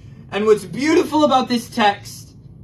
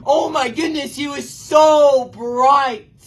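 excited awe; 5 semitones higher, 5 dB louder, slower than usual. Retold or imitated. Peter retelling Transfiguration, excited.

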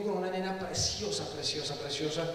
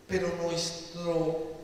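normal talking voice

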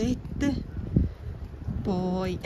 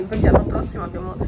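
wind on mic; 5 dB louder, much faster than usual. Real, not acted. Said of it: "scusate il vento".

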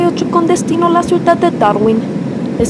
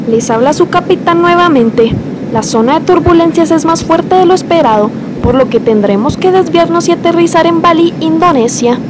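airport announcement; 5 semitones higher than usual. Acted. Captain announces again.

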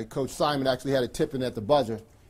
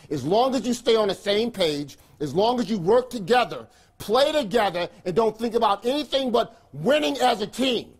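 building from firm to fired-up; rally the team, louder each line; rising pep talk; 7 semitones higher, 3 dB louder than usual. Real, not acted. Coach rallies team before game.

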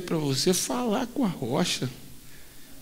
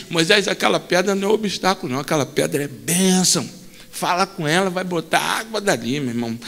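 lightly voiced God; 2 semitones lower, faster than usual. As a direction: speak as God, easy and fast. God speaking to Moses.

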